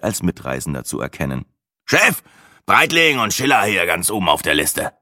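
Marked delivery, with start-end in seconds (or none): 1.8-4.9 a hint of a higher character voice; lightly voiced figure. Guide checking names on his list, lightly voiced. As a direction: read the list as a brisk guide.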